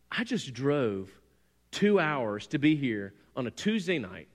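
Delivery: measured, emphatic retold indignation; self-important grumbling. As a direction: recount an affronted inner complaint, leaning on key words. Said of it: "I'm like".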